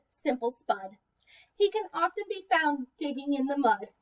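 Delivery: put-on gentle rhyming picture-book narration for young kids; storybook read-aloud. A narrator's reading. Teacher reading a picture book to preschoolers, storybook voice. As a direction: read the rhymes to the class with easy lilt.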